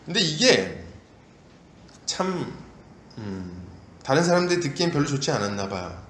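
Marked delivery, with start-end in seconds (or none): none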